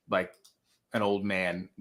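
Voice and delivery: rough voice from sickness; hoarse voice. Real, not acted. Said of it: "it ruined my voice".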